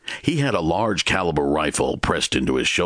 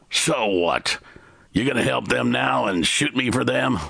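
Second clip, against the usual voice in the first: stranger asking; 9 semitones higher than usual. A narrator's reading. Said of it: "he asked".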